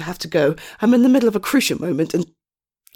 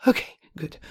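whispered aside; 3 semitones lower, 6 dB quieter than usual. Acted. Aside to client.

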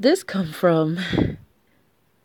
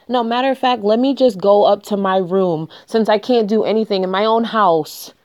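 louder, fed-up outburst; angry; 5 dB louder than usual. Real, not acted. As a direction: storm off angrily, voice raised. Angry girlfriend storming off.

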